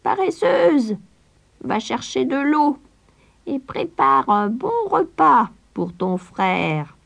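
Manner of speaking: shrieking, very high crone; witch yelling. A narrator's reading. Witch waking Gretel, very high shrieking command. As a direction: bark orders at the lazy girl, shrill. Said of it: "lui cria".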